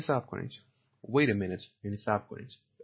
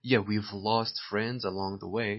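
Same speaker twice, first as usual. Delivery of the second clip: slow repeat; much slower than usual. Shown as a demonstration. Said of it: "slow model reading".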